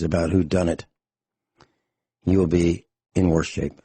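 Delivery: hoarse, worn-out voice. Real, not acted. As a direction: talk with a voice shot from days of talking. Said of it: "I'm hoarse. My voice is shot".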